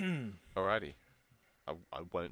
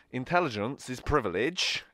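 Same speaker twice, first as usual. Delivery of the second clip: put-on loud, slightly higher Staffordshire accent; 4 semitones higher, 7 dB louder than usual. Giving a film quote to guess, Staffordshire accent. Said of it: "I'm gonna say it staff-like".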